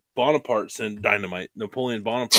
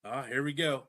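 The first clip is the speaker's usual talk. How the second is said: imitating Damon; 10 dB quieter than usual. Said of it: "mine was like when he goes".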